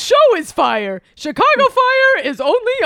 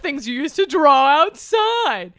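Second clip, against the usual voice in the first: boisterous birthday clown; 5 semitones lower than usual. Acted. Bunny voice continues.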